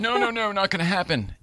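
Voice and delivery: lightly voiced kid guard refusing; mock kid yelling. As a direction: imitate the kid, fading to near normal.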